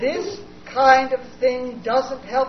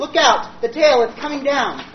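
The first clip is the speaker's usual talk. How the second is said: loud alarmed yell; warning shout; 5 semitones higher, 9 dB louder, slower than usual. Acted. Mitchell warning Jamie of the falling tail, shouting.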